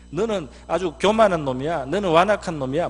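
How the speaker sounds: loud, high scolding; angry rebuke. Retold or imitated. Older brother berating David, loud and high. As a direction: berate him as arrogant. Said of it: "화를 내는 거예요".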